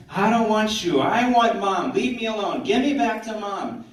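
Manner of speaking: high, loud imitated tantrum wail; hammed-up screaming toddler; mock child's scream. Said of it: "she starts screaming".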